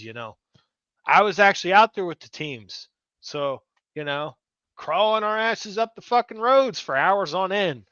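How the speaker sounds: furious call-out; angry rant. Real, not acted. Angry rant at panel member.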